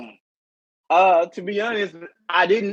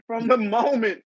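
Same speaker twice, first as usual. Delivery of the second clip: laughing hard; 4 semitones higher, slower than usual. Real, not acted. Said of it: "I'm laughing so hard".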